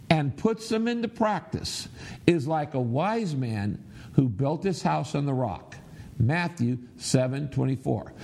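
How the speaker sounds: measured verse reading with pauses; group recitation aloud. Shown as a demonstration. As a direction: lead everyone through the verse steadily. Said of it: "Everybody say it".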